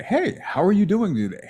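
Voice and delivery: high-pitched practice greeting; high inflection. Shown as a demonstration. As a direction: lift "how are you doing" way up. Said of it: "with a different voice inflection".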